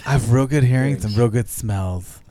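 lightly voiced clumsy flirting superhero; Daredevil voice. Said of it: "I change it up when I go all Daredevil".

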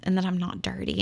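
softly voiced crying woman, understated; hushed, a touch of tears; tearful, retold. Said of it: "the lady starts crying".

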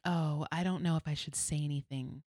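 wavering, mimicked reluctant excuse; mock hesitancy. Mimicking believers who won't speak up, mock hesitant. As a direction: waver as if unsure, mocking it.

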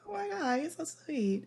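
high, gushing squeal of delight; flattered gush. Retold or imitated. Retold flattered reply.

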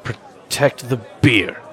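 slow, deliberate mock-solemn order; slow, weighty delivery; solemn charge. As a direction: draw it out like a grave duty. Solemn charge, then echoed louder.

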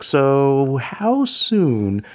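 drawn-out question that breaks into a laugh. Retold or imitated. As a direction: ask it while cracking up. Asking pediatrician, laughing at themselves.

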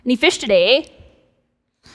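light Minnesotan lilt, tossed-off "eh"; Minnesotan accent. Acted. Random guy on shore to the fishermen, Minnesotan accent. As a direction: play a Minnesotan asking after the catch. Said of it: "I even picture it with a Minnesotan accent".

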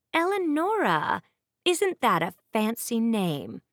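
high, startled lift on the name; surprised. Acted. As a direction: caught off guard by it. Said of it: "clearly surprised".

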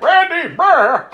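high, loud mock cry for help; hammed-up horror-movie distress; mock panicked cry. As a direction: yelp it like a swallowed victim. Acting Rachel pulled into blob.

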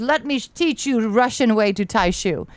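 half-hearted retold Russian accent. Retelling a Russian man's offer to teach him, light Russian accent. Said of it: "a man with a thick Russian accent".

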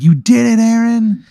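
high, excited congratulation; hammed-up party cheer; mock cheering. Voicing cheering friends at a party.

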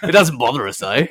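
playful fake Aussie accent; bad Aussie accent. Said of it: "we're gonna do some bad Aussie accents".

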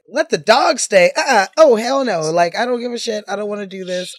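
loud, high grumpy landlord; annoyed landlord. Retold or imitated. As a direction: refuse it like a cranky landlord. Landlord refusing, acted.

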